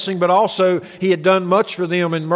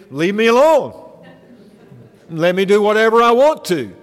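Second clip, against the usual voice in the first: put-on defiant kid; 3 semitones higher, 3 dB louder than usual. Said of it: "my advice would have been".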